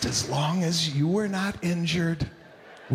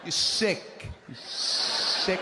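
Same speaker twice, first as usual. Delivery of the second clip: disgusted hiss; much slower than usual. Retold or imitated. Mother disgusted whisper.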